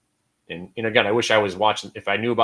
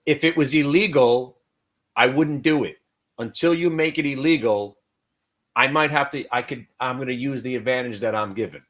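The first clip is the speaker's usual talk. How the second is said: defiant politician; 2 semitones higher, 4 dB louder than usual. Retold or imitated. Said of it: "it was, like, right out of the movie Aviator".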